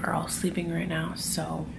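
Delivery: hushed so as not to wake anyone; soft, near-whispered talk; quiet. Real, not acted. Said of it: "I'm gonna talk kind of softly".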